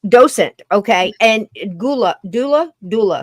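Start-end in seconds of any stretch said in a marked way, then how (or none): 1.8-3.2 fumbling an unfamiliar word until it lands; tongue-tied. Real, not acted. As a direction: try the word out, tripping over it. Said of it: "I'm tongue-tied and crazy".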